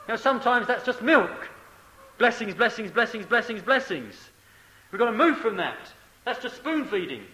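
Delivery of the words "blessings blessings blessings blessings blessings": mock demanding. Repeats the mocked demand for blessings.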